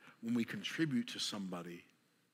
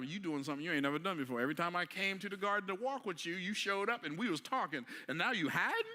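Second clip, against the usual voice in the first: a lightly voiced God, higher and puzzled; God questioning Adam; 5 semitones higher than usual. God asks Adam why he now hides, mildly higher, puzzled. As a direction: gently call out a hiding child.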